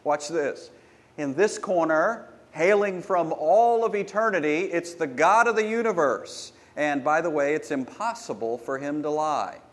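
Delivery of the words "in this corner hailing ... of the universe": mock ring announcer, rising build; boxing announcer. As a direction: call it like a prize fight intro. Boxing announcer intro parody.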